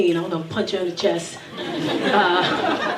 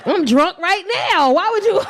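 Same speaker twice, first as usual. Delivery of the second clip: laughing, louder and higher; 8 semitones higher, 5 dB louder than usual. Real, not acted. Laughing while retelling scolding her son. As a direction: laugh through the words.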